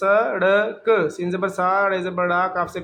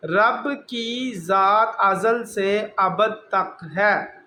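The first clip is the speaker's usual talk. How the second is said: slow reading; much slower than usual. Shown as a demonstration. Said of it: "میں صرف اس کی ایسے ہی reading کر دیتا ہوں".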